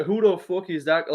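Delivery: quick Irish-accented catchphrase; Conor impression. Shown as a demonstration. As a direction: toss out the line with an Irish accent. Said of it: "anyone can do".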